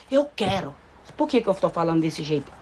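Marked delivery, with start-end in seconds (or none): 0.1-0.7 plain, decided "Eu quero"; firm request. Shown as a demonstration. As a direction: state the want without pleading.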